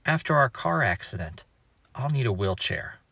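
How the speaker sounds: lightly voiced innocent child, quiet; innocent four-year-old. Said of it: "in his perfectly innocent four-year-old voice".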